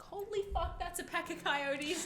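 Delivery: high, soft, stretched-out realization; imitating a hushed panic; hushed alarm. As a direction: squeak it quietly so the animals don't notice. Retelling spotting coyotes in the distance.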